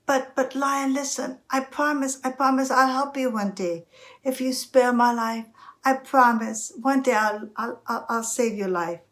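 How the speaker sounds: high, stammering little mouse; pleading mouse. Acted. Mouse promising to help the lion one day, pleading.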